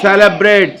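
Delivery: "Celebrate" opening on an s sound; soft C. Shown as a demonstration. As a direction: say "Celebrate" as SE-le-brate. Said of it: "Sa sound or ka sound?".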